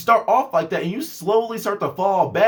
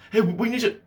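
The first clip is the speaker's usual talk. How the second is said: mock boss; 4 semitones higher than usual.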